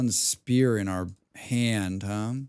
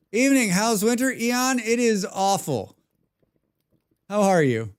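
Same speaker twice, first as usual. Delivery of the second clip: high put-on voice; 9 semitones higher, 4 dB louder than usual. Greets and answers in put-on voice.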